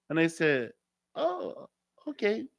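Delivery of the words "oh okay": high, soft "if you say so"; polite feigned acceptance. Retold or imitated. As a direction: back off in a small, high voice. Retold polite reply to woman.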